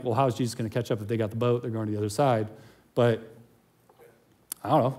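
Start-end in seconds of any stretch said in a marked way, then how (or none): 0.0-2.5 low, quick thinking aloud; softer, hurried aside as a private thought; inner musing. Acted. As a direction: voice a puzzled thought under your breath. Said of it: "in my mind, I'm like".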